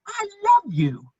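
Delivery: fervent outburst; passionate declaration. Acted. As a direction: blurt out your love. Impassioned declaration of love.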